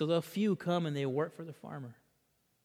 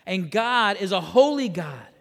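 raised, emphatic sermon delivery; impassioned preaching; 7 semitones higher, 8 dB louder than usual. Real, not acted. Preacher to congregation on God's sovereignty, emphatic preaching. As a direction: drive it home to a congregation.

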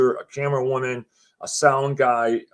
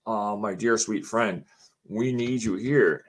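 slow, lowered, earnest appeal; retold gentle plea; 3 semitones lower, slower than usual. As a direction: ask a dear friend for help, unhurried. Joe's plea to a dear friend.

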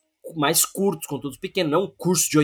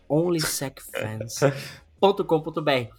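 sultry narrator; slower than usual. Shown as a demonstration. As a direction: breathe it out slowly and seductively. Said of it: "Vou até falar com uma voz sensual".

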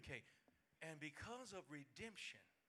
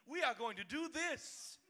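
slow, higher and louder insistence; stubborn flesh; 8 semitones higher, 8 dB louder, slower than usual. Acted. Preacher voicing the flesh overruling the spirit, slow and loud. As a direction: hammer each word, insisting.

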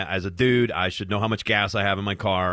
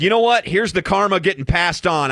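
excited proclaiming; 8 semitones higher, 5 dB louder than usual. Retold or imitated. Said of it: "I said".

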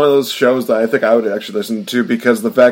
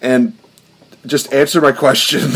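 exasperated; 3 semitones higher than usual. Retold or imitated. Acted exasperation at grammar correctors.

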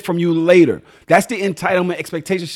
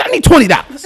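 mock plea with a laugh; 5 semitones higher, 6 dB louder than usual.

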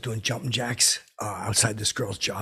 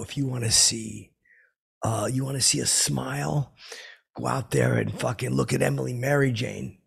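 slow, teasing pitch of a punchline; slow, hammed-up stoner-joke build; drawn-out joke delivery; 3 semitones higher than usual. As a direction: sell the joke slowly. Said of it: "I had a funny idea".

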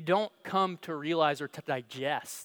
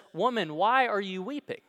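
higher, louder second voice asking gently; a different man asking, pitched higher and louder; the gardener's question; 5 semitones higher, 4 dB louder than usual. A narrator's reading. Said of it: "this time it's from someone else".

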